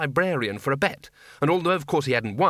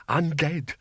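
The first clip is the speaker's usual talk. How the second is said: teasing spooky moan; 3 semitones higher than usual. Acted. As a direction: tease the bursar with a mock ghost call. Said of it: "Oh, stop teasing him".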